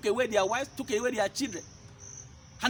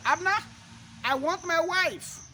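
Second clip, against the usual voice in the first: demanding king; 5 semitones higher than usual. Acted. King David orders Abner to fetch his wife, commanding call.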